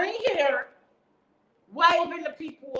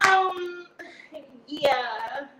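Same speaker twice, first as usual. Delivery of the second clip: flirty hoe mode; slower than usual. Retold or imitated. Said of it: "went into hoe mode".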